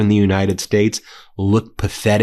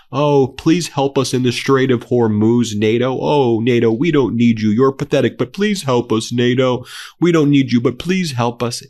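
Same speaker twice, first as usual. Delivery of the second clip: whiny pleading parody, higher and louder; mock begging; 4 semitones higher, 3 dB louder than usual. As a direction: mimic a desperate beggar to ridicule him. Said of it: "all you do now is beg".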